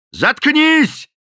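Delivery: very high, loud yell; the captain yells at the cook to shut up; furious shout. A narrator's reading. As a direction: scream it at him.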